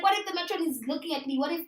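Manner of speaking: panicky fast worry. Retold or imitated. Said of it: "But I'm panicking".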